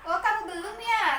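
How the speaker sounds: high teasing oh kamu belum ya; mocking. Adit mocks Sandi for unfinished work, teasing. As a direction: needle a classmate who is not done. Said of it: "ngejek itu".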